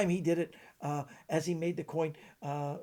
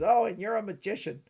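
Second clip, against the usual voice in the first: higher, louder impersonated magician; Vernon; 5 semitones higher, 8 dB louder than usual. Acted. Magician to the kid who recognised him, impersonated retort. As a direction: retort in the raised character voice. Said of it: "this is my Vernon impression".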